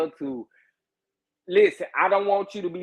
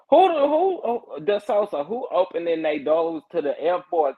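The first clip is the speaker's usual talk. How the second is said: shocked laughing outcry; 3 semitones higher than usual. Real, not acted.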